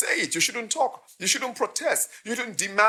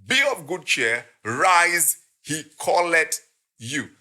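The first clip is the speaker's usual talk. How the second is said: slow, louder call; mild calling to the blind man; 4 dB louder, much slower than usual. Retold or imitated. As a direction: call him gently to come. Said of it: "saying unto him".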